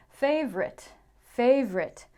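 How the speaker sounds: favorite said as FAVE-rit; two beats, fave-rit; two-syllable favorite. Shown as a demonstration. Teacher showing the short FAVE-rit. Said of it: "Not favorite".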